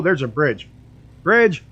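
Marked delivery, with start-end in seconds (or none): 1.2-1.6 excited shout. Real, not acted. Spots a bridge while flying.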